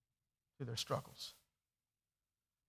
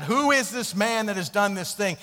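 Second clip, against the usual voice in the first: retold shout; 5 semitones higher, 7 dB louder than usual. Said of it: "he just kinda shouts out and yells out".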